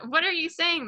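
high-pitched alarmed question; lightly acted cry of disbelief; mild narrated cry. A narrator's reading. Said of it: "the husband cried".

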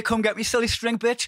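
mock taunt. Taunting shout in retold scene.

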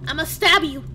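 real terrified bravado; panicked threats. Real, not acted.

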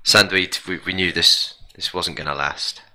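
sad voice. Pretend. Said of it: "This is my sad voice".

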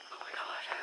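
whispered, exasperated aside; hushed, voiceless exasperation. Real, not acted. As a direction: whisper it under your breath in disbelief. Exasperated aside during her rant.

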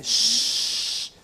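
long hushing shh to quiet the room; librarian shush. Real, not acted. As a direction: shush the class. Quieting the class.

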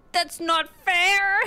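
high, loud, slow whine; whiny protest. Real, not acted. Player stuck behind an enemy, loud slow whine.

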